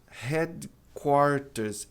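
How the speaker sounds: headquarters stretched very slowly; drawn out. Shown as a demonstration. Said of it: "ré como em reta". (headquarters bem arrastado)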